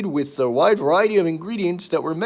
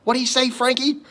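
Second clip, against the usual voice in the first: lizard voice; 8 semitones higher than usual. Retold or imitated. Louie line repeated in ad.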